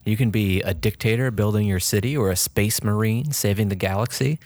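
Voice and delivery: dramatic game trailer read; announcer voice. Acted. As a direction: sell the worlds like a trailer. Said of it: "yeah, I'm getting into it now".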